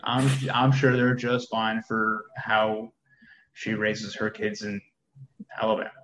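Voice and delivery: slow, dry sarcasm; sarcastic drawl. Real, not acted. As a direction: drag it out, sarcastic and mocking. Sarcastic jab at judging lady.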